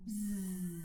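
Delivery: short buzzing hum on the out-breath; quick bee buzz; bumblebee buzz. Shown as a demonstration. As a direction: buzz like a bee as the air leaves. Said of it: "let's just do a few bumblebee breaths".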